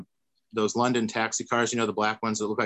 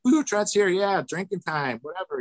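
cheering crowd; 8 semitones higher than usual. Retold or imitated. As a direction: cheer him in like a rowdy bar crowd.

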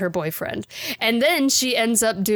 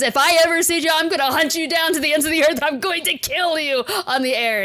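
retold threat; 7 semitones higher than usual. Drunk woman threatening her ex-boyfriend on the radio, mock furious. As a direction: rattle off a furious on-air threat to the ex. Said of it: "she calls out her boyfriend on the air and says".

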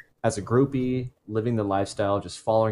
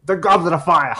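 booming movie-trailer shout; hammed-up fantasy title, louder; mock epic announcement; 7 semitones higher, 8 dB louder than usual.

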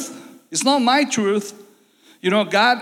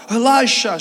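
crying out; 3 semitones higher, 4 dB louder than usual. Retold or imitated. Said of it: "she cried out".

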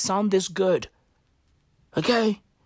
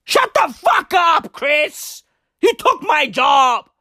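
high, drawn-out mock-furious shout; Johnny Depp; 6 semitones higher, slower than usual. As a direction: yell it at a rival in hammed-up outrage. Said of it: "then Johnny Depp is like".

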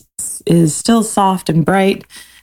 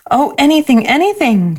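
higher, eager little cry; 9 semitones higher than usual. Acted. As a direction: blurt it out, thrilled. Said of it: "cried the little soul".

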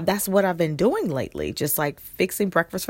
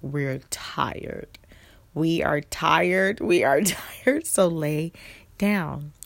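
voice of her tired body; slower than usual. Retold or imitated.

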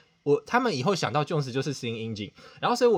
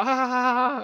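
mock class laughter; 11 semitones higher, 6 dB louder than usual. Imitating class laughing at him.

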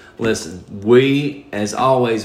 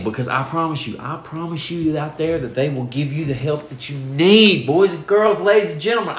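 motivational speaker. Acted. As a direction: sell it like a stage speaker. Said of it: "I'm gonna do motivational speaker".

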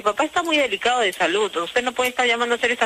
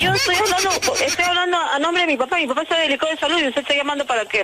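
heated, higher and fast; shouting at trespasser; 5 semitones higher than usual. Real, not acted. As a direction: fire back at the prank caller. Daughter defends father, heated.

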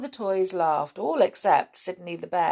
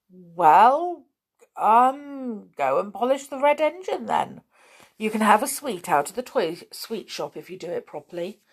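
bossy toy voice; 3 semitones higher than usual. Acted. Tom gives the bear orders.

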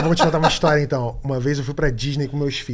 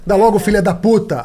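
angry cursing; 5 semitones higher, 5 dB louder than usual. Retold or imitated. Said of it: "Ele xinga mesmo a máquina".

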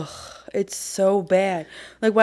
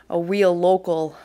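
put-on New York accent; slower than usual. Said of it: "That was my New York accent".

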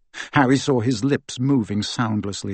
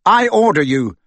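louder, higher commanding order; fierce order; 7 semitones higher, 6 dB louder than usual. Acted. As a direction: lay down the command, hard. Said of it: "said Harry fiercely".

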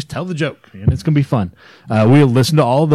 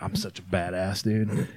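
tough mouse; 5 semitones lower, 12 dB quieter than usual. Acted.

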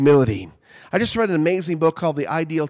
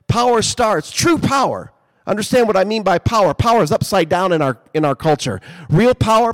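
preaching; 3 semitones higher than usual. Acted. Pastor urges congregation on power.

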